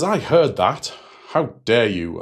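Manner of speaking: mock indignation in a retold quote; indignant retort. Retells an acted quarrel.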